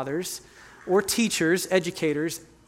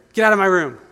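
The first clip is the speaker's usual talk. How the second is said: imitated teen yell; 9 dB louder, faster than usual. Son voiced in a retold fight.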